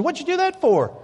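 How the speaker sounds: high, indignant question; surprised and upset. Acted. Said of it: "the Chinese man was so surprised".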